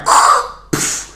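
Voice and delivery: voiceless mouth-made crashing noise; imitated rock crash. Showing a rock going through a car roof, crash noise. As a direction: make the noise of a smashing impact. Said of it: "huge rock just going".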